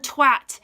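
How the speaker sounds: "twat" with a short A, as in "cat"; A-sound pronunciation. Shown as a demonstration. Insisting on the spelling, "twat" said with an A sound. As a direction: stress "twat" with a clear A, never "twot". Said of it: "there's an A, not an O".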